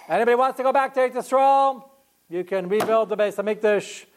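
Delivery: royal announcement. Retold or imitated. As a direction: announce it to the whole kingdom. King Korish's proclamation.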